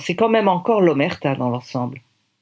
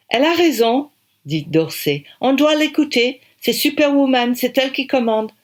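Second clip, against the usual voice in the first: high, loud, delighted voice; lively British director; enthusiastic director; 9 semitones higher, 3 dB louder than usual. Acted. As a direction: cheer her on as the boss. Director enthusiastically backs her.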